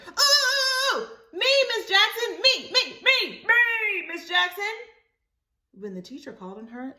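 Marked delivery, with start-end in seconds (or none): 0.1-4.7 very high, loud begging to be picked; eager hand-raising. Acted. Libby begging the teacher to call on her, very high. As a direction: pick me, pick me. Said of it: "Libby started waving her hand".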